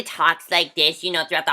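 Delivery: lightly put-on valley girl voice; a hint of ditzy valley girl; mock valley girl imitation.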